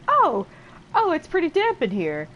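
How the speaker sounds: high, loud, overdone "oh, it's damp"; hammed-up fake nonchalance. Guy hiding tears in the bath, hammed-up high and loud. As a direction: cover up tears with a big mock exclamation. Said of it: "trying not to cry".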